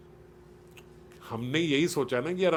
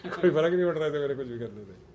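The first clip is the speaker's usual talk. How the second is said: laughing echo. Real, not acted. Laughs while echoing listener.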